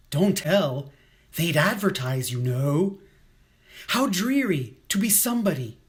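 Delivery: lightly dramatised poetry reading; poem recital. Acted. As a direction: recite it phrase by phrase with lifted openings. Reads a poem to children.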